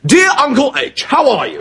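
lightly voiced letter read, chirpy opening; reading letter aloud. Lieutenant reads his letter to the nurse, lightly performed. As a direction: read it out like a proud schoolboy. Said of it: "All right, then".

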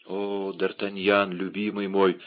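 тихий, замедленный вздох любви; мягко, с нежностью к любимому; нежное обращение. Acted. Возлюбленная встречает спасителя. (нежно, тихо)

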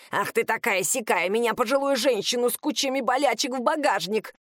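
put-on outraged old lady voice; indignant old woman. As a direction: play an offended grandma. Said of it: "атаке старой грубиянки".

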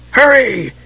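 irritable dry rasp. Acted. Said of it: "a dry, rasping voice demanded irritably".

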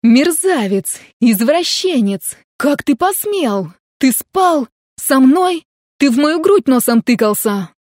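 outraged shouting; furious yelling. A narrator's reading. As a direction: scream abuse at the cat across the field. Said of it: "заорала на всё поле".

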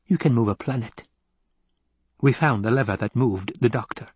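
lightly voiced scheming counsellor; brief them like a precise adviser; a hint of a clever schemer, pitch slightly lifted; analytical mentat. Voices Piter briefing the Baron.

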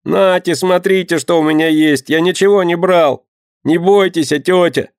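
high pleading whine; pleading street boy. A narrator's reading. Ragged boy pleads his innocence, high whine. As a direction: whine it up at the grown-ups.

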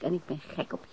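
soft, intimate aside; tender confession. Acted. Woman softly confesses her love to Beck. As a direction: say it softly, almost to yourself.

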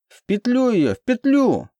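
very high, frenzied squeal; madman's shriek. A narrator's reading. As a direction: shriek the order like a lunatic. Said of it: "вопил сумасшедший".

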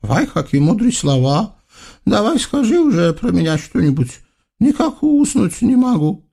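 high, whiny ruler's voice; spoiled sultan. Acted. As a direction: whine for praise like a spoiled tyrant. Sultan demands flattery.

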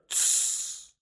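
sharp unvoiced shush; hush. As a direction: silence him fast.

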